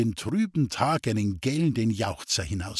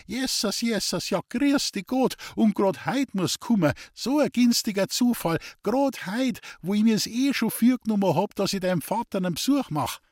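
high, rapid, whirring chatter; whirring shrill voice; 8 semitones higher than usual. A narrator's reading. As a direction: rattle on like a spinning wooden wheel. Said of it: "Ihre Stimme surrte wie ein hölzernes Rädel". (hohe, schnarrende Plapperstimme)

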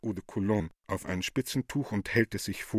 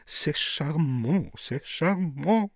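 worldly; 4 semitones higher, much slower than usual. Acted. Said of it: "sehr weltmännisch".

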